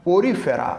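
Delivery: ପୋରିଫେରା said clearly as a model; model pronunciation. Shown as a demonstration. Teacher showing students the correct pronunciation, carefully saying ପୋରିଫେରା. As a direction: pronounce ପୋରିଫେରା carefully for learners. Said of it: "correct ପ୍ରନାଉନ୍ସିଏସନ୍ କର".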